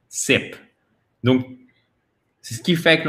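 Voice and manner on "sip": "Sip" with a quick, short i; clipped short vowel in "Sip". Shown as a demonstration. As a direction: keep "Sip" brief. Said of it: "c'est une voyelle courte".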